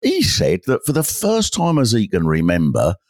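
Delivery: put-on fussy amateur detective questioning a sweet old lady; a hint of a nosy cricket-club detective; village sleuth character.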